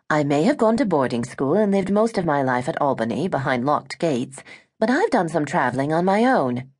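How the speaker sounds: lightly voiced, proper British young heiress; a hint of a sheltered British girl defending herself; British young woman. Gwen insists to Eliza she has traveled, light British voice.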